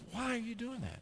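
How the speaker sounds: puzzled dad. Retold or imitated. Dad voiced in story.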